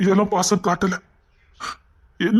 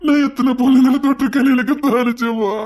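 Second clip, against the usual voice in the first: crying confession; 4 semitones higher than usual. Acted.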